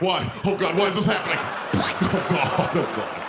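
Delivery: hammed-up helpless whimpering; distraught wail. Passenger forced to obey demands, mock-distraught wail. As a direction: wail it like a humiliated victim. Victim obeys the demand, wailing.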